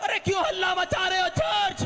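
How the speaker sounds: loud, high sermon delivery; a pastor shouting the story of Jairus; fiery preaching. Acted. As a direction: preach it out to the whole church. Preaching at full force.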